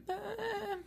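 slow, drawn-out shrug of a jeweler; mock jeweler. Jeweler telling the price of a fake chain, slow and offhand. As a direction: stretch the price out like a casual appraiser.

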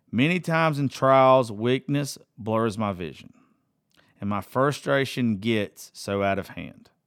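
slow, earnest reading of song lyrics. Acted. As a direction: read each lyric line slowly, letting it sink in. Reads song lyrics aloud.

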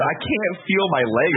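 high, slow cartoon wail; mock agony. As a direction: drag it out like a hammed-up casualty. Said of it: "is what the guy said".

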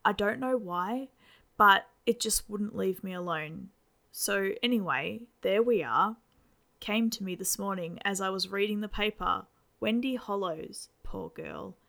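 a father rattling on over breakfast; chatty dad. Acted. Dad keeps talking.

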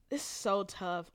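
slow, soft whispered agonizing; slow torn whisper to himself. Real, not acted. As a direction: whisper it as if torn over the choice. Struggling to pick number four.

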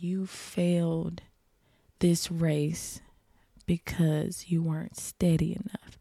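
hushed whisper of inner blame; whispered self-scolding. Retold or imitated. Runner on the grass scolding herself, hushed whisper. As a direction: whisper it like a voice in your head. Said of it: "In my head, I'm like".

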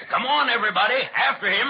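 put-on rally the children with a laugh; rallying call. Santa rallying everyone after the thief.

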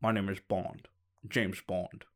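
a hint of Bond, mouthing it slowly; Sean Connery as Bond. The speaker imitating Sean Connery's Bond for a friend. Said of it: "I'll do the Bond".

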